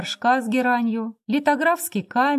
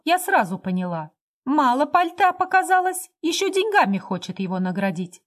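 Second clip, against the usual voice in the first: scornful gossip; 5 semitones higher, 3 dB louder than usual. Acted. Scornful gossip about the husband.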